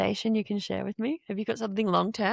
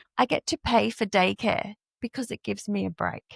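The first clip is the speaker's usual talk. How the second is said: ordinary talk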